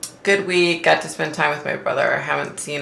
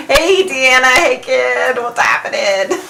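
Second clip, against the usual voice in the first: high cheery greeting; 9 semitones higher, 4 dB louder than usual. Real, not acted. Greeting viewers joining the live.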